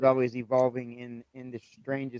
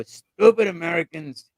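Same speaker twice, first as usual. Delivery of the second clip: slow, higher, louder mock scolding; imitating grandmother; 4 semitones higher, 7 dB louder than usual. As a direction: do grandma's exasperated catchphrase, drawn out. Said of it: "my favorite quote from my grandmother".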